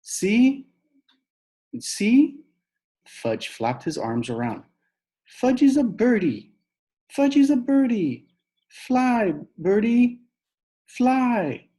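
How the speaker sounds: put-on high, loud little-kid squeal; excited toddler. Fudge pretending to be a bird, high excited squeal. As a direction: shout with joy like a small child. Toddler flapping on jungle gym.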